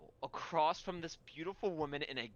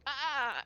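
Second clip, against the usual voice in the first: high, loud mock "ah"; smartass "ah"; 10 semitones higher, 5 dB louder than usual. Game master voicing a character's smart-aleck reaction, high mocking cry. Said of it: "be a smartass and go".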